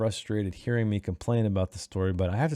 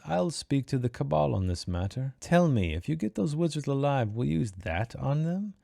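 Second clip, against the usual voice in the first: slightly raised character voice; lightly acted, higher-pitched dialogue; lightly voiced Baruch; 4 semitones higher than usual. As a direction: put the question as a story character. Reading Baruch's quote aloud.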